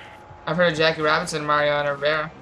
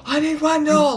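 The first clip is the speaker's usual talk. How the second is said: high desperate cry; 10 semitones higher, 4 dB louder than usual. Acted. Yelling for friend in game.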